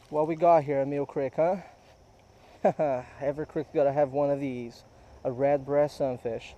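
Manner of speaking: light mock southern accent, easy pace; put-on southern accent. Angler shows off the first catch, mock southern accent. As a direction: play at a slight southern twang. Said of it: "Let me drop the accent now".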